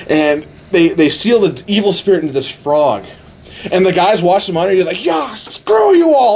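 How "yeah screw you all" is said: slow, high, drawn-out furious yell; angry shout. Retold or imitated. Operator yelling at the monitor over survivors, furious shout. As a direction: bellow it out, stretched and enraged. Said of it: "Like, he's getting pissed".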